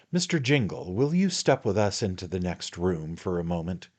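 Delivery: a hint of a fussy little attorney; little attorney, confiding. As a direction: fuss over him, dear sir. The attorney talks in the story.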